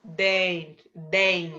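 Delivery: "Den" said as one separate syllable, N included; syllable shown alone. Shown as a demonstration. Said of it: "que o N também faz parte".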